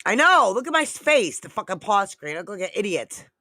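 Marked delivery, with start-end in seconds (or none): 0.0-1.4 high amused disbelief. Real, not acted. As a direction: pitch jumps way up and louder at I know. Laughing at frozen face.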